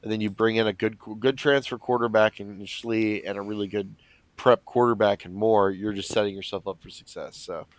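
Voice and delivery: stuffy nose from allergies; blocked nose. Real, not acted. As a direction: talk through a blocked nose. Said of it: "can't breathe through my nose, and so I probably sound like I'm plugging it".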